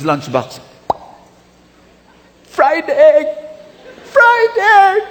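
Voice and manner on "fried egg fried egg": high, loud cry rising to a squeal; fed-up outburst. Acted. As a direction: yell it in disbelief, louder the second time. Worker sees fried egg again.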